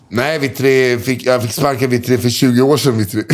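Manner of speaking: a hint of slurred drunk answer; lightly voiced drunk man. Drunk man explains he was fired, light slur. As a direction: mumble it like a tipsy old man. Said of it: "drunk man answering".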